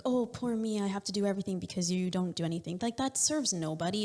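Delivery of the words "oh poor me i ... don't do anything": playing the martyr. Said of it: "don't play the martyr".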